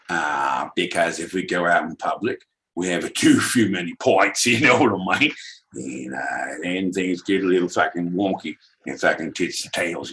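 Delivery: easy Cockney bloke on pints with mates; Cockney accent. Pretend. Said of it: "in a Cockney English accent".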